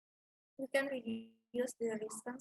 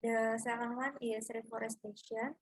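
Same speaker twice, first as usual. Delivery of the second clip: raised presenting voice, louder; speaking louder; 4 dB louder than usual. Real, not acted. Student presenter repeating a point after being asked to speak up, louder. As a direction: repeat it louder so they can hear. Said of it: "can you please speak louder".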